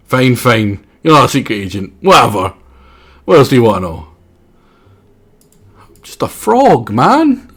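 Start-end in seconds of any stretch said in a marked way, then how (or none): 5.8-7.5 frog voice. Acted. Voicing the frog character.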